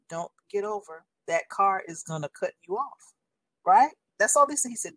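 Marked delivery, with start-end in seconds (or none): 0.1-3.1 soft, lowered, unhurried caution; gently steer someone out of danger, softly; gentle warning. Retold or imitated. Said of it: "he just gently said".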